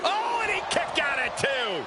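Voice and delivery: high, excited near-fall cry; high-pitched wrestling commentary; astonished call. Real, not acted. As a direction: react in disbelief to the escape.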